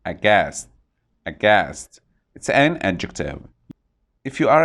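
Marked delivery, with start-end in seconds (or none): 0.0-2.0 aghast with the weight on GHAST; stress on second syllable. Shown as a demonstration. Teacher drills the word aghast for learners, stressing the second syllable. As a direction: say Aghast as a-GHAST, twice, landing on the end. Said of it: "The stress is on the second syllable".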